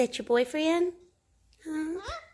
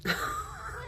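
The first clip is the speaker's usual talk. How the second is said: high squeal laugh; 7 dB quieter than usual. Real, not acted. Laughing at pet.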